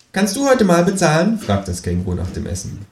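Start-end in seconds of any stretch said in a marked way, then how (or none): 0.1-1.4 lightly voiced cheeky kangaroo, pitched higher; a cheeky kangaroo nudging him to pay. Kangaroo pushing the narrator to pay after dinner, lightly raised cheeky voice.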